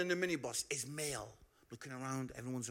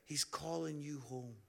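tender appeal. Real, not acted. Tender altar call.

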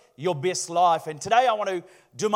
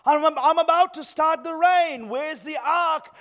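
booming Lord voice; 6 semitones higher, slower than usual. Acted. God confronts Noah in joke.

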